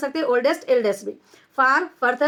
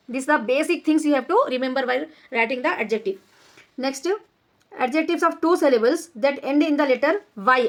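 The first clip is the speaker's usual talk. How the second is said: slow, deliberate reading of a grammar rule; measured classroom dictation; slow textbook reading; much slower than usual. Shown as a demonstration. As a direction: read each word out slowly for the class. Reads textbook rule aloud.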